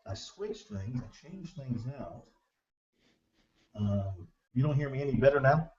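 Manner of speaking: muffled, far-off line audio; tunnel sound. Real, not acted. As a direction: voice echoing down a tunnel. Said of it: "but you sound like you're in a tunnel".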